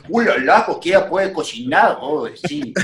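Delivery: mock French chef. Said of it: "el gordillo de Ratatouille".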